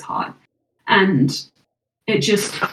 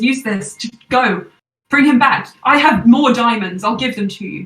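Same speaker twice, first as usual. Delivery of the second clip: frantic urging; 3 semitones higher, 5 dB louder than usual. Acted. Game master as Loran thrusting a dagger at the healer, frantic. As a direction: press them frantically to act. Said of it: "like, frantically".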